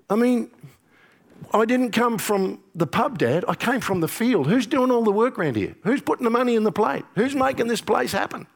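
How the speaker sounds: a resentful son who did all the work; indignant elder son. Acted. Elder brother protests to his father.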